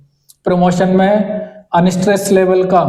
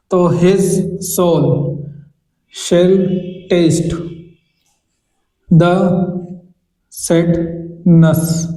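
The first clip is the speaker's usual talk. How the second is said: हर शब्द अलग, लंबे विराम के साथ; मीटर दिखाने के लिए शब्द-शब्द तोड़कर; scanning the line; much slower than usual. Shown as a demonstration. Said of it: "examples में अपन देखें". (पंक्ति की लय गिनते हुए)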